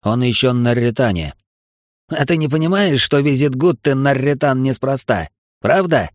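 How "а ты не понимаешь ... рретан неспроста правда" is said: mock him by parroting his words; mocking mimicry. Ренмайер taunting the admiral, mimicking him. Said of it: "Передразнил его Ренмайер".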